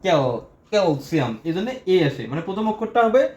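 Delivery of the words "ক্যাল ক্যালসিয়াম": ক্যাল alone, then the whole ক্যালসিয়াম; syllable sounded out. Shown as a demonstration. Teacher repeating calcium for students, ক্যাল split off first. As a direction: break off ক্যাল before saying ক্যালসিয়াম in full. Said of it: "এ উচ্চারণ আসে এই জায়গার মধ্যে".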